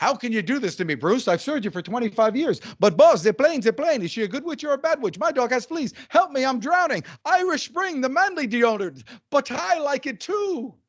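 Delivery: full-on, high, enthusiastic sales-pitch delivery. Retelling a friend's demo of saying gibberish lines: imitating enthusiastic delivery. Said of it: "Say it with enthusiasm".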